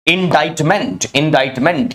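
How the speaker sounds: इंडाइटमेंट said 'in-dite-ment', silent C; pronunciation model. Shown as a demonstration. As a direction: drill इंडाइटमेंट with an 'eye' in the middle. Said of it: "या इंडाइटमेंट पढ़ेंगे अगर noun".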